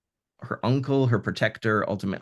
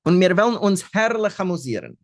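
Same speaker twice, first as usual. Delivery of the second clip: high and playful, louder; 8 semitones higher, 4 dB louder than usual. Acted. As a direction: tempt him with a lovely time. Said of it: "sagt sie zu ihm".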